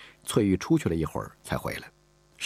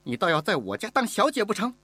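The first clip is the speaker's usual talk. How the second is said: sneering; 14 semitones higher than usual. Acted. Mistress sneers at the girl.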